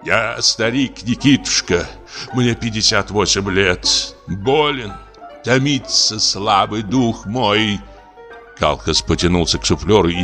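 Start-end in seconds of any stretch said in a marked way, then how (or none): 0.0-7.8 put-on lamenting old actor.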